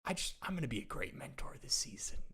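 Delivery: hushed imitation of a quarterback giving in; half-whispered, reluctant acceptance; resigned mock quote. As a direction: mutter it softly as his imagined words. Imagined resigned quarterback talking to himself.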